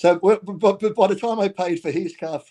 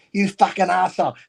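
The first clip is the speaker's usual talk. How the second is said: higher, half-raised angry outburst; mock road rage; 5 semitones higher, 4 dB louder than usual. Driver cursing someone who cut him off, re-enacted angry outburst. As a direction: curse a driver in retold anger. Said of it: "I'm getting very angry mood".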